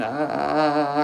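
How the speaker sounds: drawn-out, high mock wail; mock crying. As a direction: imitate whining in pain, held long. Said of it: "crying, going".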